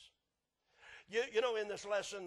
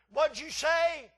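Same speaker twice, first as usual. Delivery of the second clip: slow, loud, higher stern demand; stern daddy; 9 semitones higher, 14 dB louder, much slower than usual. Retold or imitated. Daddy demands the boy repeat himself, slow and stern. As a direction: drag it out like a warning father. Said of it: "here's what I heard".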